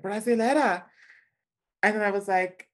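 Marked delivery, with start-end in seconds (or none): 0.0-0.8 purred, sultry Brazilian greeting; sultry Brasileira. Retold or imitated. Woman on the beach eyeing him up, sultry purr.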